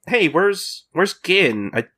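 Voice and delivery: high-pitched mock bewilderment; puzzled group. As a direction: imitate someone looking for a missing friend. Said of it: "everybody's like".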